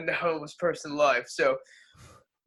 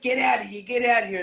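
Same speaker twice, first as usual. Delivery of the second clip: higher, shooing them out; mock clerk yell; 5 semitones higher than usual. Clerk shooing homeless men away, mock yell. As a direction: bark them off the doorstep.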